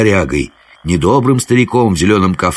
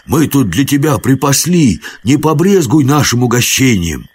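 coaxing peasant bogatyr, pitched up; ingratiating offer, rising higher as it goes; wheedling hero; 5 semitones higher than usual. Acted. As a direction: sweet-talk a touchy forest spirit. Hero coaxes wood spirit with wine.

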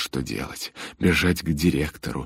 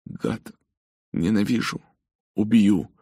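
angry sobbing; 6 semitones higher, 4 dB louder than usual. Acted. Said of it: "повторял Льюис снова и снова".

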